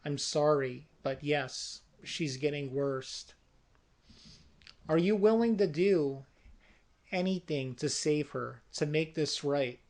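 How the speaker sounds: hint of a solemn elderly priest; older man. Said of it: "sounds like a much older man".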